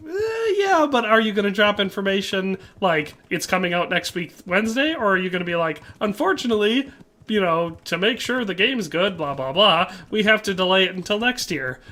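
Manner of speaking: playful sarcasm at the devs with a high voice; sarcastic teasing. Retold or imitated. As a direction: poke fun at the studio's delays. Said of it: "So I'm always like".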